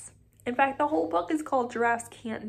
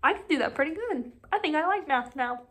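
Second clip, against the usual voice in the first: mock kid voice; 5 semitones higher, faster than usual. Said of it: "you're like".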